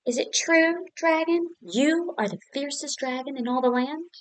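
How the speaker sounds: butter up the dragon; flattering princess. Acted.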